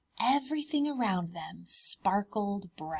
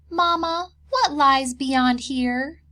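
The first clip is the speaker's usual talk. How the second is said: high, louder little cub asking; 6 semitones higher, 9 dB louder, slower than usual. Acted. Bear cubs asking Mama, high child voice. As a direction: pipe up like a curious bear cub.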